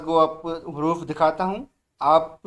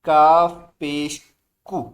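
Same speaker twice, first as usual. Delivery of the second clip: loud recitation; 5 dB louder than usual. Shown as a demonstration. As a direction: call it out loud for the class. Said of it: "बुलंद आवाज़ से".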